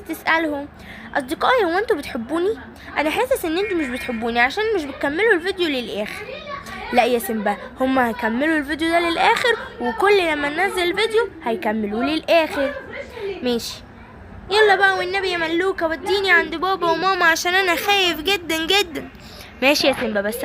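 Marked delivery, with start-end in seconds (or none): 1.1-6.3 high, fast, hurt pleading; sulky toy voice. Acted. Simba asks viewers. 14.5-19.1 begging toy voice. Acted. Simba begs Malooka.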